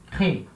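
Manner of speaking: "crées" as one short syllable, no S; silent weak ending. Shown as a demonstration. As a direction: drop the final ES of "crées". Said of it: "ela não vai aparecer".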